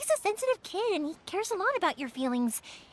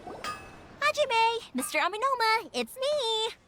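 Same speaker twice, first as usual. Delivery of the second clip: higher, bright call across the workshop; 5 semitones higher, much slower than usual. Acted. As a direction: call out to get his attention. Calling out at the forge.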